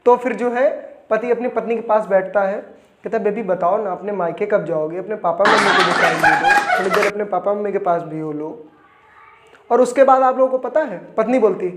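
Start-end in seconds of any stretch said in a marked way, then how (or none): 3.2-8.5 fake sweetness. Husband five years on, gently nudging his wife off to her parents, sly and sweet. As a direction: sweet-talk her into leaving, a touch sly. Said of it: "शादी के पाँच साल बीत जाते हैं".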